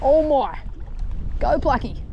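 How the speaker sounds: a burst of real excitement as the fish hits; thrilled shout of encouragement; excited cheer. Real, not acted.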